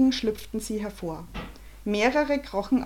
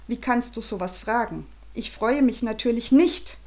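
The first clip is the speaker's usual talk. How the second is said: louder grumpy retort; angry father; 3 semitones higher, 3 dB louder than usual. Acted. Father snaps back at his wife, louder. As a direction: snap back in annoyance. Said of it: "schrie Bernhard Vogel".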